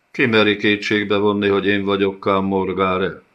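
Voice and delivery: growling. Acted. The nomad growling back at the karasz who calls him a liar. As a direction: bristle at the insult and bite back. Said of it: "mordult fel a nomád".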